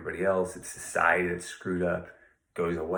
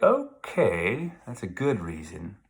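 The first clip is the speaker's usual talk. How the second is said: sarcastic John; 2 semitones higher, 4 dB louder, slower than usual. Retold or imitated. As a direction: toss off a mocking agreement. John's sarcastic reply acted.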